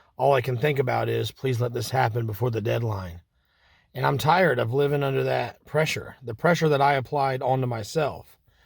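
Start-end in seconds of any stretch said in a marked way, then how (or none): none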